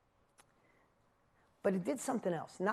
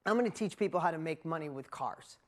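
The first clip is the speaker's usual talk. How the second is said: lower, dry and deadpan "I'm gonna teach people how to make money with cars"; wry repeat; 4 semitones lower than usual. Shown as a demonstration. Speaker repeating his old plan to the crowd, deadpan. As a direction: let the plan sound silly now, low and dry. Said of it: "Now think about that".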